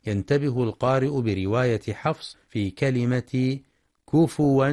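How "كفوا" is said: كفوا as "kufuwan", u after the f; كفوا with damma on fa, then "wan"; waw for hamza. Shown as a demonstration. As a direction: say كفوا with a w glide and no glottal stop. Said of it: "لإبدال الهمزة واوا".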